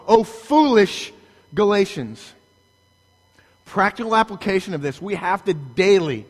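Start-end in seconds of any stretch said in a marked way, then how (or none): 0.1-2.3 slow, louder cry; screamed rebuke. Acted. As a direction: drag out the rebuke, loud. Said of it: "Paul is screaming here at you".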